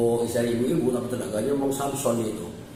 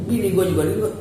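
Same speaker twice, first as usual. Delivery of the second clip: put-on Betawi accent; 6 semitones higher, 4 dB louder, faster than usual. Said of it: "kalau bahasa Betawi kan kayak gitu".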